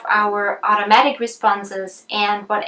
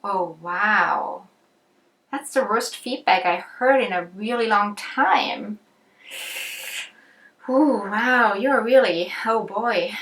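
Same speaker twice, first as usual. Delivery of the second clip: sympathizing; 3 dB quieter than usual. Acted. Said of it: "I could sympathize".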